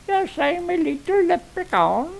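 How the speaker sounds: high, squeaky little leprechaun. Pretend. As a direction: chirp it like a tiny leprechaun. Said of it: "I sounded like a leprechaun".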